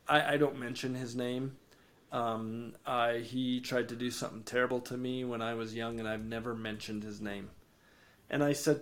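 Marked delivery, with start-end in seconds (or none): 0.1-7.5 quiet confession. Retold or imitated. Tyrone confides about his abusive dad.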